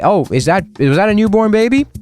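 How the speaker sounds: high, rising excited question; mock delight, pitch climbing sharply to the end; eager villain. Villain spotting prey in a village, eager and high. Storyteller plays villain sniffing out babies.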